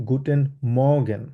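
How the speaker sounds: গুটেন মর্গেন said slowly, German style; German pronunciation. Shown as a demonstration. Teacher models গুটেন মর্গেন slowly for the class. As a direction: say গুটেন মর্গেন slowly, goo-ten mor-gen. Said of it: "জার্মানে আমরা বলবো হচ্ছে".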